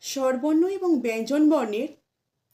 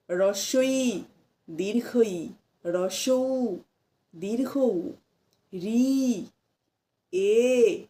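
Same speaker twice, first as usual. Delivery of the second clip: practice recital; 4 semitones lower, much slower than usual. Shown as a demonstration. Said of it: "আমার সঙ্গে সঙ্গে আপনারাও অনুশীলন করুন".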